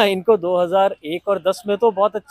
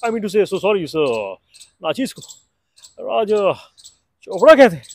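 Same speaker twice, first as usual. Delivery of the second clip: Hrithik Roshan impression; 5 dB louder than usual. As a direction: charm her in Hrithik's Kaho Naa style. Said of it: "कहो ना प्यार है".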